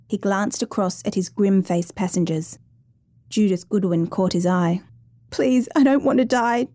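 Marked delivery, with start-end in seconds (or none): 5.3-6.7 higher-pitched, understated plea; begging. A narrator's reading. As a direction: plead for your life, voice raised in pitch but not volume. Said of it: "Judith begged".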